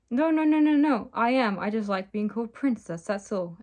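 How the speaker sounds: rattled run of "no"s, starting high and loud; flustered stammer. Acted. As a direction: protest in a fluster, then settle down. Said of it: "Ellie stammered".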